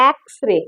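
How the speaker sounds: एक्सरे with a clear opening "ae" vowel; sounding out X-ray. Shown as a demonstration. Teacher voices the word to judge its first sound, एक्सरे opened on "ae". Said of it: "अगर मैं इसकी आवाज करूं".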